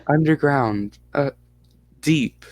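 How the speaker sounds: put-on halting Russian-accented child and interpreter; broken English, mild Russian accent. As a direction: answer in a light Russian accent. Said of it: "you sound like a Russian person".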